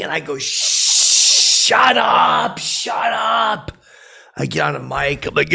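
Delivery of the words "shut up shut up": loud, high yell to silence the room; angry shout. Retold or imitated. At a party, silencing the noisy crowd, a loud high shout. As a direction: bark it at the whole party.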